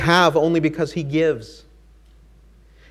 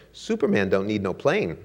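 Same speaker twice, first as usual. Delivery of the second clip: dry comeback; 4 semitones lower than usual. Acted. Flight attendant answering Ali, laughing at her own comeback. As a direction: answer cool, then break into laughter. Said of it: "she stared at him and said".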